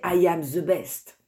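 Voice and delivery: English in a thick French accent, the TH in «the» said as Z. Shown as a demonstration. Teacher showing students a French-accented English phrase, heavy French accent. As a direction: say «I am the best» the way French speakers do, «the» as «ze». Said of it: "avec l'accent français".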